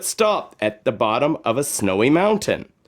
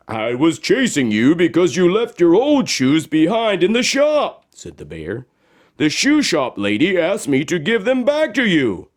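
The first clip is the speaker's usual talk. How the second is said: lightly voiced bear, a bit higher; bear explaining; 5 semitones higher than usual. Bear telling Josephine about her old shoes. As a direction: explain it kindly.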